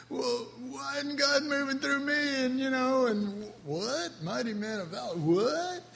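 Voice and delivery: high, incredulous complaint; doubting believer. Acted. Preacher voices a listener doubting God's call, incredulous. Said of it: "And you say".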